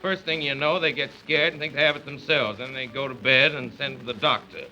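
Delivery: testy head of the house; grumpy father. Acted. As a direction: wave it all away as nonsense. Father scoffs at illness.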